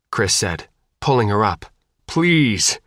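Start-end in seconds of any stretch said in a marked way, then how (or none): 2.0-2.8 higher-pitched, desperate plea; pleading. A narrator's reading. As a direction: beg her to come along. Begging his wounded partner to come.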